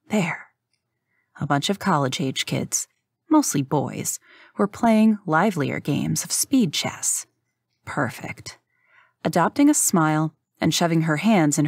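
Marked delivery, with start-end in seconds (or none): 0.1-0.5 whispered discovery. A narrator's reading. Narrator spotting the chess players, whispered. Spots her targets. 7.8-8.6 soft, breathy whisper to herself; a private, satisfied whisper; whispered thought. A narrator's reading. Rook sizing up the college boys, whispered satisfaction. Inner thought spotting marks.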